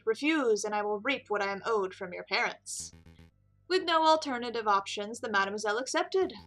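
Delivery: lightly voiced, formal storyteller; storytelling prisoner. Prisoner telling detective an allegory, measured. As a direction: set out a veiled tale deliberately. Game character Juan tells story.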